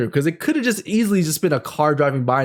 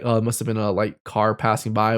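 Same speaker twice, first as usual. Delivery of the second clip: dismissive; 6 semitones lower than usual. Retold or imitated. To herself, explaining the light away, low offhand. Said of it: "I would have scientifically thought".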